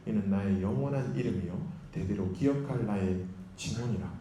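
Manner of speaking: measured, even Bible reading; scripture reading. A narrator's reading. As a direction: read the verses out formally, phrase by phrase. Reads the Bible passage aloud. (성경 본문을 또박또박 낭독하듯)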